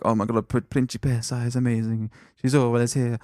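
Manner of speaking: put-on light Italian accent; a hint of Italian. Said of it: "I was putting on the Italian accent".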